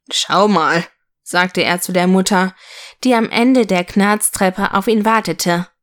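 put-on lively storyteller reading to children; story narration. A narrator's reading. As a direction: read it like a bedtime story, voicing the figures. Reads a children's story aloud. (lebhaft vorgelesene Kindergeschichte)

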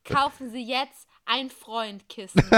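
slick late-night sales pitch; chipper 1950s ad. Acted. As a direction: sell it smoothly like TV. TV infomercial voice in story. (gut gelaunter Werbesprecher)

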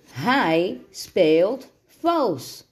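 each word of "Hij speelt vals" slow and stressed; slow, word-by-word accusation; emphatic accusation. A narrator's reading. Boy accuses his opponent of cheating, slow and emphatic.

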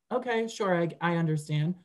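lightly acted passive-aggressive acceptance. Replying to someone ghosting her, mildly passive aggressive. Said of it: "super passive aggressive".

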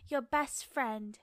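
attempted British accent. Continuing the Bridgerton quote when urged, amateur British accent. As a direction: put on a careful English accent. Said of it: "my English accent isn't that bad".

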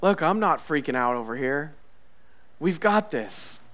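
soft, unhurried comfort; quietly steady someone who is panicking; gentle, unworried confidence; calm reassurance. Acted. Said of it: "let Jesus just speak to you".

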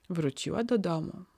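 plain reading voice

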